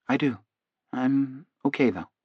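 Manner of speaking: reply softly from inside a trance; entranced patient. A narrator's reading. Hypnotized man reassuring his doctor, softly entranced.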